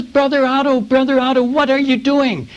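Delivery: high, excited hail of a friend; startled delight at spotting a friend; surprised pastor. Retold or imitated. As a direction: call out in happy surprise, pitched high. Surprised pastor hailing on roadside.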